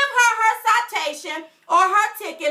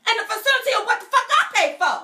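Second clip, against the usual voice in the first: quick, higher-pitched mock indignation; acted indignation; 4 semitones higher, faster than usual. Host acting out telling off the officer, indignant. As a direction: rush it out, affronted. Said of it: "But I would've said it like that".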